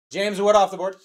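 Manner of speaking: put-on old-time radio announcer voice; nineteen forties announcer. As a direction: call it like a vintage radio broadcaster. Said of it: "Cue the nineteen forties announcer".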